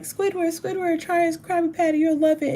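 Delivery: high, eager cartoon sponge voice; SpongeBob impression. SpongeBob urging Squidward to try the patty, high eager cartoon voice. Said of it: "SpongeBob, uh, was like".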